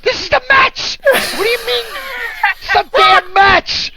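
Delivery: high exasperated complaint; exasperated protest. Retold or imitated. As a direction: whine it like a betrayed Yankee fan. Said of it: "I'd be like".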